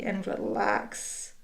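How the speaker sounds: slow, breathy and soft relax; soft release. Real, not acted. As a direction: let it go gently. End of stretch, release.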